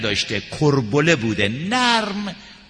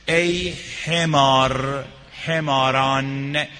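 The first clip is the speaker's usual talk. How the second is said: scornful rebuke; much slower than usual. Acted. Preacher voices Habib's rebuke.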